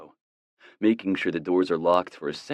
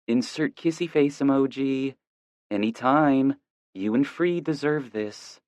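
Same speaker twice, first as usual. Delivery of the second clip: female voice; 8 semitones higher than usual. A narrator's reading. Harper's text read aloud.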